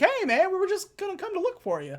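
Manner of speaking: a hint of a caught slacker; sheepish excuse. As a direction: talk your way out, fast. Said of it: "He was like".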